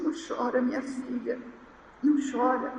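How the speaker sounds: softly voiced motherly soothing; tender comforting. Mother hugs her crying daughter, soft and soothing. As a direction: imitate a mother gently consoling her child.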